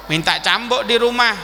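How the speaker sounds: ordinary talk, nothing marked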